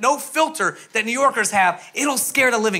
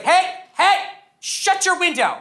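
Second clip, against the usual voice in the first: high mock yell of a rude passenger; playful high-pitched imitation of a yelling woman; mock screaming woman; 9 semitones higher, slower than usual. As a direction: shriek it like an annoying stranger across the plane. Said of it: "start screaming across the plane".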